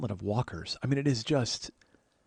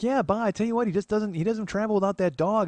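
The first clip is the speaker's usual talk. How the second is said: aunt's voice; 9 semitones higher, 4 dB louder than usual. Retold or imitated. Aunt voiced in story.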